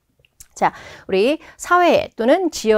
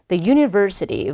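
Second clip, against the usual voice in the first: "university" said slowly with VER punched; stress on VER; much slower than usual. Shown as a demonstration. Teacher shows students where the accent falls, stress on VER in "university". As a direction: hit VER in "university", slow and clear. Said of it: "ver 부분에 강세 꼭 넣어주시고요".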